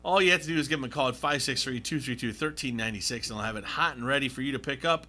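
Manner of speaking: brisk local radio pitch; live ad read. Real, not acted. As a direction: rattle off the pizza deal and phone number. Reads a live pizza ad.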